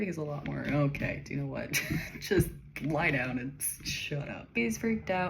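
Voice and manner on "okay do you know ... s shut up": lightly acted gruff comforting; be brusque, a laugh slipping in; half-hearted gruff impatience; mock gruff. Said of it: "He's just a lot gruffer about it".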